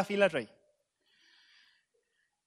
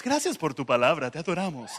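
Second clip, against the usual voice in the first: lowered, mock film-dubbing Spanish; movie-dub neutral Spanish; 4 semitones lower than usual. Shown as a demonstration. Demonstrating film prayers to the audience, neutral dubbing Spanish. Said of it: "el idioma neutral de las películas".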